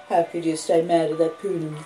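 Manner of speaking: ordinary talk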